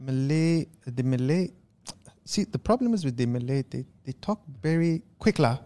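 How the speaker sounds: put-on light Malaysian accent with "la"; mild Malaysian English impersonation. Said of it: "that and Malaysian Singaporean".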